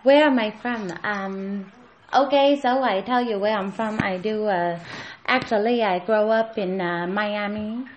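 lightly put-on Hong Kong accent. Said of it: "And you have this accent?".

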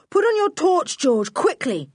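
high, urgent yelled order; urgent boy's shout; yelling. A narrator's reading. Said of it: "he yelled".

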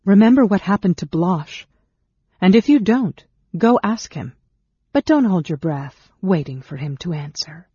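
high, loud, forceful warning; threatening. A narrator's reading. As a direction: intimidate the goblin, easing down at the end. Threatens goblin with another's fate.

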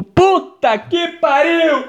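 high, drawn-out cry of disbelief; exasperated subconscious. Acted. Inner voice reacting to his awkward question, exasperated outcry. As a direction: stretch it out, high and appalled. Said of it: "meu subconsciente tava tipo".

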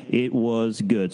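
slow, drawn-out response line; call-and-response line. Shown as a demonstration. Leader teaching children their response, slow and drawn out. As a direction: model the phrase slowly for kids to echo. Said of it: "you say".

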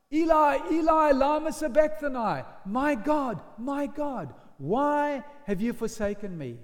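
calling out high and loud in anguish; cry of anguish. Acted. Preacher voicing Jesus on the cross, anguished loud cry. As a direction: cry it up to heaven, forsaken. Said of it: "And he cries out".

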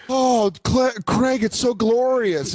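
hammed-up starstruck girlfriend; swooning mock gasp. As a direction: gush like she's dazzled by the closet. Mocking April's swooning reply.

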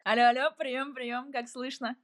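over walkie talkie. Pretend. Pretend radio check call.

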